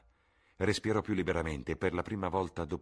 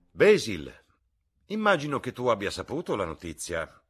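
lightly voiced Lord Henry; 6 semitones higher, 11 dB louder than usual. Lord Henry greets Basil.

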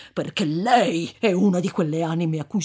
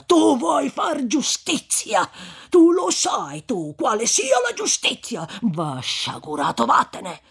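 rising to a thundering shout of scorn; furious rebuke; 5 semitones higher, 7 dB louder than usual. Acted. Friar thundering at vengeful Renzo, furious shout. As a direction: scold him like a wrathful preacher.

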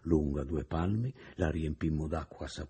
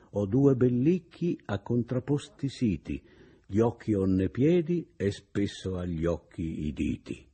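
poem recital; 2 semitones higher than usual. Acted. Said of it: "nell'atto di recitare".

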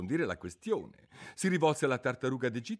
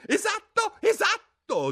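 sighing; 10 dB louder, slower than usual. A narrator's reading. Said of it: "sospirando a sua volta".

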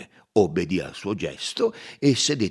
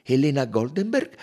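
raised detective voice, unhurried; Poirot's voice; 6 semitones higher, 9 dB louder than usual. Acted.

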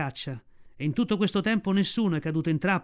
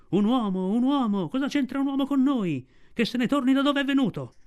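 pack shouting; 8 semitones higher than usual. A narrator's reading. Half the pack shouting at the council. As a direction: whip the crowd up, higher and higher. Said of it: "oltre metà del branco gridò".

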